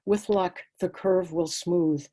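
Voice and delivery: measured poem reading in short, paused phrases; understated recital with a pause after each line; poetry reading. Acted. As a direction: read your own poem aloud, phrase by phrase. Reads own poems aloud.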